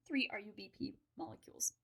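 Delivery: speech broken by hiccups; hiccuping. Real, not acted. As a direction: hiccups cutting into the words. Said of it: "these hiccups are getting a little out of hand".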